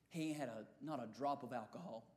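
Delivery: low deputy reply. Retold or imitated.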